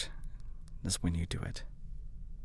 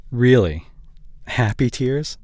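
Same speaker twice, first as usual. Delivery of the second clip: surprised; 5 dB louder than usual. Acted. Partner reveals happy tears.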